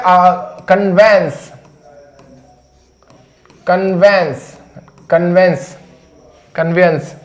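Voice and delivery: कन्वेंस said slowly with an e; pronunciation demo. Shown as a demonstration. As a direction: repeat कन्वेंस with an open e. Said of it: "ये होता है".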